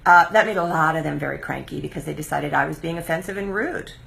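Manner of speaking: normal talking voice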